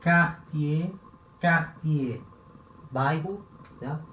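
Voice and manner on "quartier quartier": "quartier" said as "kartiê" with a hard K; French demo of "quartier"; French pronunciation. Shown as a demonstration. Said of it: "Q U, som de K".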